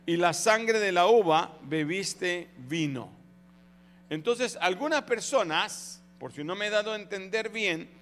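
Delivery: ordinary talk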